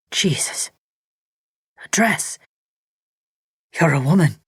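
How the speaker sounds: a hint of shock as he finds a woman; surprised realisation. A narrator's reading.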